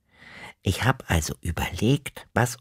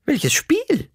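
high, puzzled granny voice; granny wondering what he means; puzzled grandma. Acted. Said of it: "hat Oma Otto sich gewundert".

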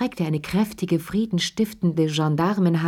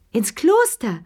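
high, louder shocked shriek of "Kloster"; 7 semitones higher, 4 dB louder than usual. Acted. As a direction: shriek the word out in disbelief. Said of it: "kreischte Charlotte Pelou".

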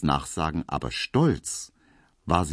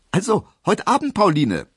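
much higher and louder, hurried call; hasty loud farewell call; 13 semitones higher, 6 dB louder than usual. A narrator's reading. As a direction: call back as he rushes off. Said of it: "rief er".

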